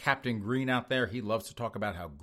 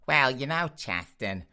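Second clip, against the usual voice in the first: straight liberal man; 3 semitones higher, 4 dB louder, slower than usual. Acted. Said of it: "I imagine him sounding like that".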